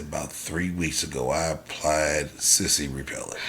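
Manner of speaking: deadpan punchline. Retold or imitated. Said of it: "I said".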